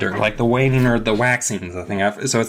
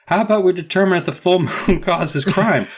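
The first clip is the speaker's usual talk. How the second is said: eager pitch; 9 semitones higher, 3 dB louder than usual. Retold or imitated. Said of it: "I was like".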